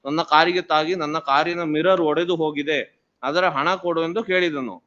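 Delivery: brisk read-out of a written complaint; reading aloud. Real, not acted. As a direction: read the statement into the record, quickly. Reads the complaint aloud in court.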